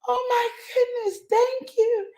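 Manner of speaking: put-on high, excited child's voice, half shouted; thrilled little boy. Son thanking his mom for a gift, high excited child voice. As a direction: squeal it like a delighted little boy. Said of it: "he would always go".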